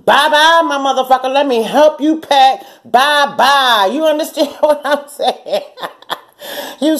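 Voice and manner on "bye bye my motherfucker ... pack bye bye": high sing-song "Bye-bye", slow "Let me help you pack"; mocking send-off. To the ex, a high sing-song mocking goodbye. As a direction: cheerfully show him the door. Sending the man away mockingly.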